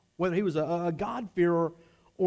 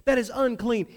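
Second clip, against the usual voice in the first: higher and louder, stress on never; indignant protest; 4 semitones higher, 3 dB louder than usual. Acted. Peter protesting to God, indignant and loud. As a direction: insist on your purity, offended. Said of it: "He would protest this".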